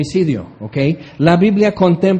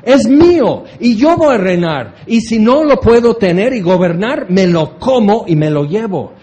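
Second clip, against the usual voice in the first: preacher voicing the devil, loud and defiant; mild hammed-up devil, louder; 2 semitones higher, 4 dB louder than usual. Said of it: "Entonces el diablo dice".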